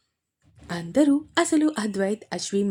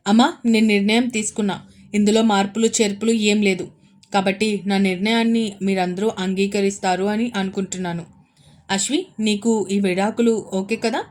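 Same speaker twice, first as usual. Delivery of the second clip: firm defiance; 5 dB louder than usual. Acted. Son defiantly tells family decision.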